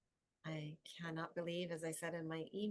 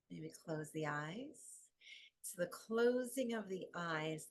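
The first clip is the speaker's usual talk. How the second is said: guided meditation. Acted. Yoga teacher settling the class into rest, calm guided meditation. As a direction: ease them down with long pauses between phrases.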